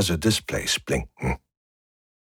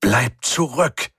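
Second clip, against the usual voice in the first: calling out; 4 semitones higher, slower than usual. A narrator's reading. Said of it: "rief die Stimme".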